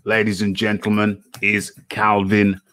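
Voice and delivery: usual speaking voice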